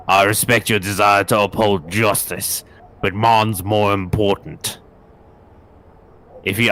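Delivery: lightly voiced suave thief; a hint of a polished villain; eloquent thief voice. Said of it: "I picked the wrong voice for this character".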